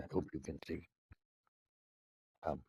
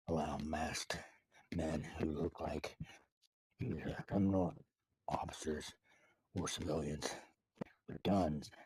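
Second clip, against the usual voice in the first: deliberately slow. Pretend. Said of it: "he told me to teach this very slow".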